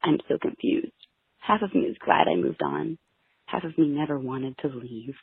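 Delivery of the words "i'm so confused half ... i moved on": whispered. Acted. Poem, confessional whisper.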